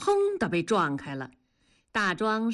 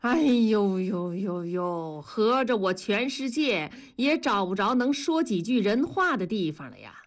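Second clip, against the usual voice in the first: exclaiming lament. Acted. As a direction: lament it in exaggerated exasperation. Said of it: "大声地感叹". (夸张地大声感叹)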